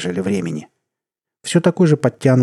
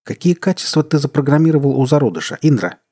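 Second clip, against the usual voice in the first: harsh question; 6 semitones higher, 4 dB louder than usual. A narrator's reading. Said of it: "жёстко спросил он".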